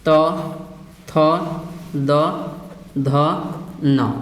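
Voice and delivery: each letter क, ख, ग, घ, अंग alone, with long pauses. Shown as a demonstration. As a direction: recite the letters slowly for the class. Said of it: "तवर्ग".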